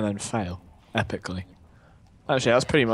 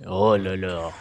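hammed-up French oh la la; French accent; 4 semitones lower than usual. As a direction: purr it like a cartoon Frenchman. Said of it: "my outrageous French person accent".

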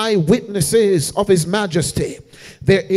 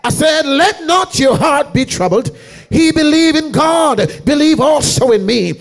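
preaching at full force; 3 semitones higher than usual. Acted. Preacher to congregation quoting Jesus, full-force chanted whoop.

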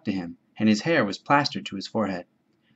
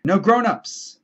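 gleeful, higher and louder cry; delighted shout; 9 semitones higher, 5 dB louder, slower than usual. Acted. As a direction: crow it out with pure joy. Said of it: "the delight of a realized ambition overcame him".

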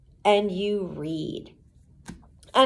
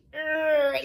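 creaking groan; 7 semitones higher than usual. Acted. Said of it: "and groaned".

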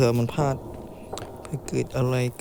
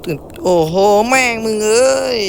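startled outburst; 7 semitones higher, 7 dB louder than usual. Real, not acted. Jump scare in the game.

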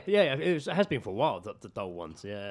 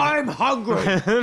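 very slow, high robot bellow; hammed-up, drawn-out robot shout; unsexy robot voice; 8 semitones higher, 11 dB louder, much slower than usual. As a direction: blare it out like a malfunctioning doll. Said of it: "that's not sexy talk".

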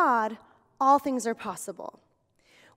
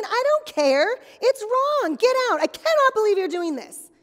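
loud, much higher, indignant yelling; angry; 7 semitones higher, 6 dB louder than usual. Acted. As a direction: order them out, fuming. Acted outrage at intruder.

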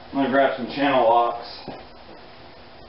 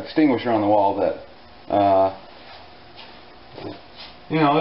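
dry sarcasm, mock reassurance; deadpan joke, pretending to be confident; sarcastic. Real, not acted. Mechanic jokes about his outdated fire extinguisher, sarcastic. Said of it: "Obviously I'm being sarcastic there".

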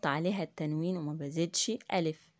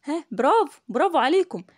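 excited praise; 8 semitones higher, 9 dB louder than usual. Real, not acted. Teacher praising the class.

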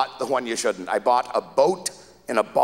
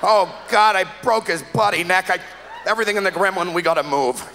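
panicked chiropractor; 4 semitones higher than usual. Retold or imitated. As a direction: blurt it out in alarm.

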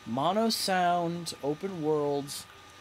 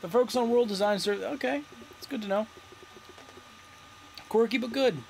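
surfer dude voice; 6 semitones higher, faster than usual. Real, not acted. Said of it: "my voice changed to Surfer Dude there".

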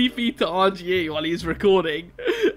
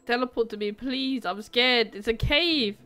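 voice changer; 3 semitones higher than usual. Pretend. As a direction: kid voice through voice changer. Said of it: "voice changer on".

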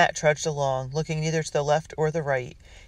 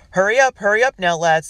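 loud, higher urgent call; 6 semitones higher, 10 dB louder than usual. Acted. Colonel in the dream urges the lads to hurry, calling loudly. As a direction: rouse the sleeping lads. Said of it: "the colonel called".

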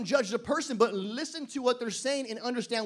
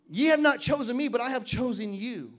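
scripture reading; 3 dB louder than usual. Acted.

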